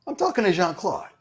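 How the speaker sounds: says it through a laugh; can't keep the laugh out of it. Retold or imitated. Retells brushing off the PA.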